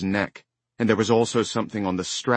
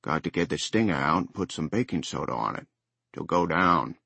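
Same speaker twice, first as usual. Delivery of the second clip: put-on Down East accent; 3 semitones lower, 3 dB quieter than usual. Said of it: "thick with Down East accent".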